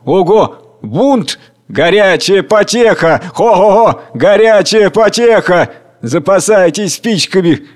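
high, loud gloating cries; gleeful crowd. Acted. Rabble gleefully cheering the coming revolt, loud and high. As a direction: savour the coming fire. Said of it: "Голоса".

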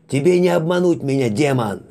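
high, loud, crazed accusation; maniacal yell. Acted. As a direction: shriek at the demon like a madman. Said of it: "Маниакальный вопль".

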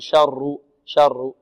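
شر with a thin, light R; wrong light R. Shown as a demonstration. Teacher warning students against شر, with a wrongly light R. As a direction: say شر with the R wrongly thinned. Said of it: "لا نقول".

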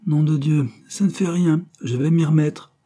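un juron rageur, plus haut. A narrator's reading. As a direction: jure contre le tableau, plus haut. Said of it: "On l'entendit jurer". (juron furieux, voix haute)

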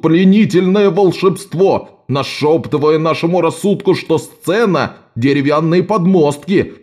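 clumsy actor declaiming angrily; furious hiss. Acted. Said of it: "яростно прошипел". (яростное шипение)

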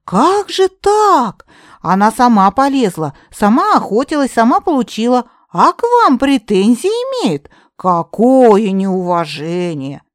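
high and loud, slow theatrical outrage; overplayed shock to flatter the old witch; indignant. A narrator's reading. Katerina sympathising with Yaga, loud mock outrage. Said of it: "Катерина так возмутилась".

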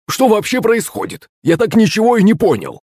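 high, baffled servant voice; confused and lost; bewildered. Acted. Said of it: "непонимающим взглядом".

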